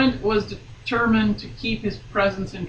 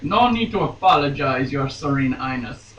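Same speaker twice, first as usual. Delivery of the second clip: put-on failed German accent; 3 semitones lower than usual. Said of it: "that's not German".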